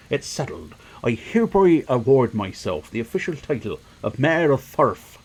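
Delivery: lightly voiced self-important leader; a hint of pomp, savouring each grand claim; pompous would-be mayor. Villager appoints himself mayor to his boy, lightly pompous voice.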